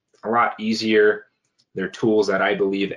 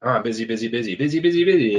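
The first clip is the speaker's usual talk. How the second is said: mock frazzled complaint; 2 semitones higher, faster than usual. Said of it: "one of the common things is".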